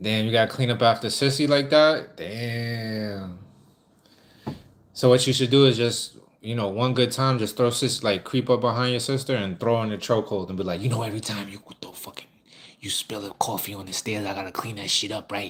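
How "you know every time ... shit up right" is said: hushed half-whisper, very close to the listener. Showing how to say a line while holding someone from behind: half-whispering in someone's ear. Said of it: "whisper it to her like that in her ear".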